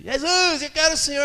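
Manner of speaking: high, loud eager plea to Jesus; eager cry. Acted. Follower calling out to Jesus, high and eager. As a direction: call out like a keen new follower.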